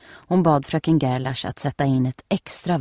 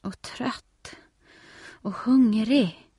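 whining; 7 semitones higher, slower than usual. A narrator's reading. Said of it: "gnäller Nelly".

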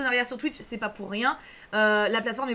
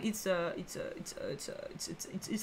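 fading to a whisper; 6 semitones lower, 12 dB quieter than usual. Pretend. Streamer stalling before reading, fading mock stammer to a whisper. Trailing off comically.

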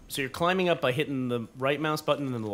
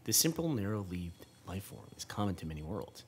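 measured, lower read-aloud voice; 3 semitones lower, 4 dB quieter than usual. A narrator's reading. Parent reading game text to child, measured narration. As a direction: read it out softly and deliberately.

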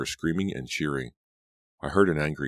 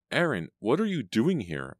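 choked out; 8 semitones higher than usual. A narrator's reading. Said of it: "I choked out".

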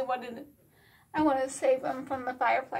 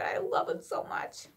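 soft breathy whisper of affection; 5 dB quieter than usual. Acted. Confessing love for the rabbit in a whisper. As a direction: whisper it like a secret crush. Fond aside about the rabbit.

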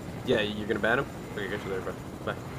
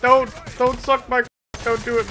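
sudden loud curse; angry shout; 7 semitones higher, 4 dB louder than usual. Real, not acted. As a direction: yell it out in frustration. Dies in game, curses.

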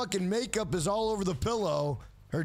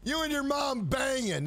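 raised, mocking comeback; teasing shout; 5 semitones higher than usual. Real, not acted. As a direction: yell it to roast the chatter.

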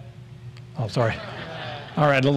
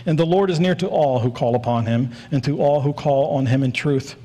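both "all"s given extra weight; stress on each "all". Shown as a demonstration. Preacher reading a Psalm to the church, emphasis on each "all". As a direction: lean on "all" each time it comes. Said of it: "I'm gonna emphasize the word all".

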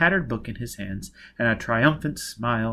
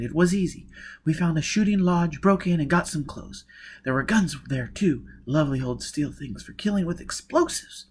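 higher-pitched woman character recounting her escape; higher voice, story told to an accomplice; Jiz, hard-edged escapee; 5 semitones higher than usual. Acted. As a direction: tell the escape in a raised character voice.

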